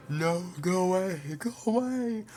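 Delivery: panicked cry; terrified shout. Acted. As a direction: scream in terror. Culprit facing execution.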